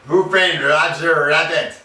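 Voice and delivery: high, loud mock French accent. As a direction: announce it in a hammed-up French accent. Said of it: "in this French accent".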